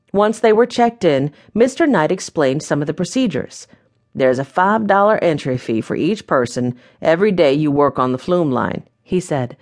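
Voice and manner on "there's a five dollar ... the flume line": lightly voiced genial host, a little lower; a hint of a folksy proprietor welcoming guests; welcoming mine owner. Mine owner greeting new guests, lightly voiced and welcoming.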